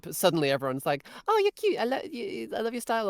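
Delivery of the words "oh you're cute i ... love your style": high, gushing imitation of admirers; mock gushing. Everyone suddenly compliments her, mock gushing. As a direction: gush compliments in a raised voice.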